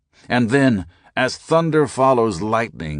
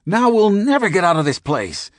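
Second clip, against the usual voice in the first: very high, louder panicked cry; panicked yell; 12 semitones higher, 5 dB louder than usual. A narrator's reading. Skinner panics at the narrator, high and loud. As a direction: wail it in panic.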